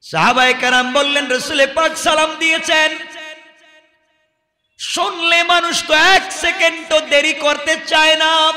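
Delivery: high, ringing sermon delivery with long-held line ends; impassioned preaching. Acted. Preacher retelling the companions' rebuke to a crowd, impassioned. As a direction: project each phrase like a preacher to a crowd.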